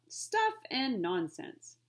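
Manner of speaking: slow, dismissive scoff. Acted. Butler dismissing the boy's worry, slow scoff. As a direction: brush the idea aside slowly. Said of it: "The butler dismissed the thought".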